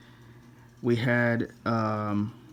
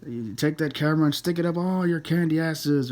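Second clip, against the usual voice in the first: The Rock, lightly imitated; 4 semitones higher than usual. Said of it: "he's like, you know".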